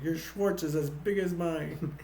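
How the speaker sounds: lightly acted movie villain, drawn out; slow, mock-menacing quote; Dark Helmet. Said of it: "Dark Helmet's like this".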